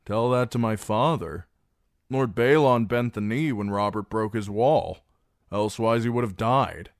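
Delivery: high, loud and commanding; loud threatening ultimatum. Acted. Reek pressing the garrison to surrender, loud and high. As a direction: push them to yield.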